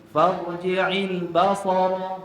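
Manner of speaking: slow farji'il basara with the stress on ba; retold wrong stress. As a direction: imitate the reader pressing on ba. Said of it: "Ba tu kena tekan".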